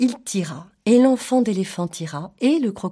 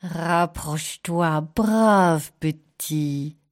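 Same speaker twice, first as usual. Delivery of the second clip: even slower drawn-out lure; coaxing crocodile; 3 semitones lower, much slower than usual. Acted. Crocodile coaxing again, more slowly. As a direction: linger on brave.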